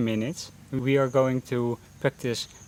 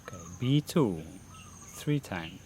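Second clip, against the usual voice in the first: unhurried meditation guidance with long pauses; guided meditation; 10 dB quieter than usual. Real, not acted. Teacher leading beginners through a mindfulness breathing session, guided meditation voice. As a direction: guide them gently into breath focus, pausing between phrases.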